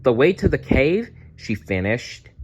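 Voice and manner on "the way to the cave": put-on high, eager young dinosaur voice; excited little Maya. Maya cries out to Dazzle, high and eager. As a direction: Maya scolding her friend with relief.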